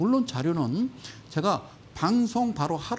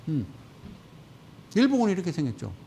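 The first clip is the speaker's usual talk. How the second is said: ordinary delivery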